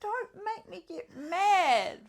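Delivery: slow, high mock-German threat; German accent. Player warning co-host, slow mock German accent. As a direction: draw out a threat in cartoon German.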